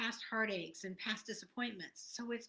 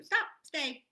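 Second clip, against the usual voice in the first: louder commanding order to a dog; mock dog-training command, louder; firm dog command; 5 semitones higher, 6 dB louder than usual. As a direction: bark out the order to stay. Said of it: "And then you go".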